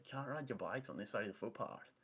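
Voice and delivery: mocking Canadian accent; put-on Canadian twang, lightly douchey. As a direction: imitate an obnoxious Canadian telling someone off. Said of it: "saying it in, like, a douchey Canadian accent".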